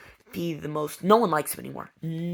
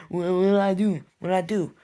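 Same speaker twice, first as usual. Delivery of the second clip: mock innocent whine; 3 semitones higher, 7 dB louder than usual. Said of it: "he's just like".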